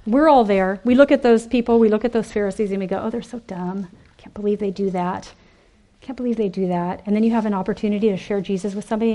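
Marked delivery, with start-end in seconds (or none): 3.0-7.0 hushed scornful whisper, mocking. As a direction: whisper it smugly, looking down on them. Mocking Pharisees in hushed aside.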